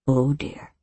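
low, soft sinking "Oh dear"; low worried. Acted. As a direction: let it drop, dismayed. Repeated worried exclamation.

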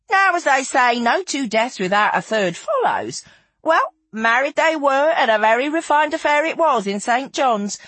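a touch of theatrical storytelling; Feathers, lively storyteller. Acted. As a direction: tell the tale with gossipy relish. Narrator voices Feathers telling her tale.

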